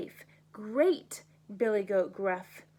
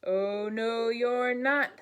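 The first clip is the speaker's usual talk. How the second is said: thundering troll; slower than usual. Acted. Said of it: "thundered the troll".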